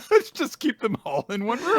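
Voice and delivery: high, loud, goofy; silly high character voice. Retold or imitated. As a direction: squeak it out playfully. Voicing the character, laughing.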